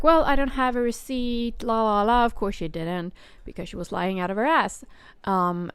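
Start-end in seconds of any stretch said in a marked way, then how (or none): 0.0-2.2 sing-song, higher, dismissive; imitating a caller dodging the receipt question; mocking caller. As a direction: brush it off with a careless la la la. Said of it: "she started going like".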